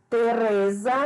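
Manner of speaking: "Teresa" with the RE drawn out; stress on the tonic syllable. Shown as a demonstration. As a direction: say "Teresa" leaning on the middle syllable RE. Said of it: "a sílaba tônica é re".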